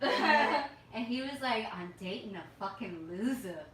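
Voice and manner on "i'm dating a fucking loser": light imitation of New York accent; tossed-off New York accent quote. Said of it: "Like, in a New York accent".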